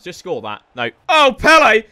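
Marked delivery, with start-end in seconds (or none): 1.1-1.8 loud delighted cry of the name; excited shout for Pele. Real, not acted. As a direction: cheer the name out. Excited at Pele's play.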